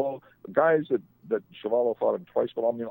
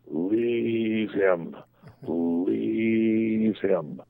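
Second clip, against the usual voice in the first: Ali impression, teasing; much slower than usual.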